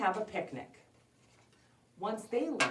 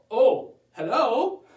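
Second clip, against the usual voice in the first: slow, loud, higher pretend grandma; fake granny voice; 5 semitones higher, 12 dB louder, slower than usual. Wolf in Granny's bed greets visitor, fake granny voice. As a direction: stretch out a put-on granny greeting.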